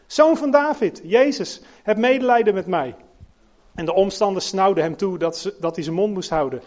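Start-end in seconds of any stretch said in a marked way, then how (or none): 0.1-3.0 loud pleading cry, pitched up. A narrator's reading. Blind beggar calling to passing Jesus, loud pleading cry. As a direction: cry out for mercy with full voice. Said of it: "begon hij te schreeuwen".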